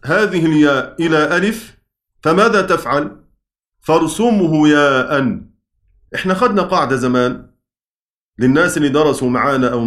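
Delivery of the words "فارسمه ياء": slow, measured chant of the verse; slow verse recitation. Shown as a demonstration. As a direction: draw out each word like a recited line.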